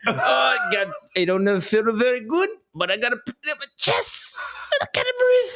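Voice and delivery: put-on very high, strained Hispanic accent; squeaky over-the-top Hispanic accent. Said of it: "Why do you sound Hispanic".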